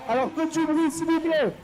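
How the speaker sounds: rally the crowd to make noise; crowd hype announcer. Real, not acted. Announcer asking Nantes to cheer for Jérémy, hyped up.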